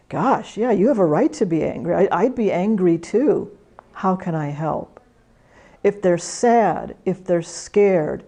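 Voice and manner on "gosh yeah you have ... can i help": sympathetic agreement. Shown as a demonstration. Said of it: "You're agreeing with them and saying".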